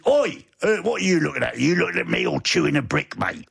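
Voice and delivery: mock British hard-man challenge; British lout. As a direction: play a British lout picking a fight. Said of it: "Is that your British influence?".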